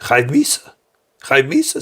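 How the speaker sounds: high-pitched imitation of a strict parent; mock scolding. Strict parent rebuking a disrespectful child, high mock scolding. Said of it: "no, I don't have to tell them".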